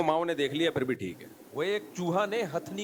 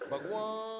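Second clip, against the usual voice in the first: a higher mock donkey cry; donkey bray; 6 semitones higher, 7 dB quieter, much slower than usual. Joke teller repeats the donkey's cry in mock bray. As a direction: call out like a braying donkey. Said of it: "गधा क्या बोलता है".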